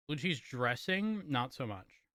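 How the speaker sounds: talking with a mouth full; words pushed through a mouthful of food. Real, not acted. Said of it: "I'm talking with my mouth full".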